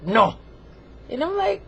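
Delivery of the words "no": curt, louder uppity refusal; a hint of a snooty, demanding figure; Frenchie. Frenchie refusing to behave, uppity. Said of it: "real uppity and snooty".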